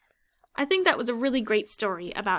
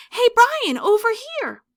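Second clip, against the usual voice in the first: calling over; 12 semitones higher, 9 dB louder than usual. Acted. Justin waving Brian over at lunch.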